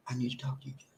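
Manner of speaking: quietly firm wife; calm, soft wife. Acted. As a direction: keep the wife soft and patient against his yelling. Role-play of the wife asking calmly.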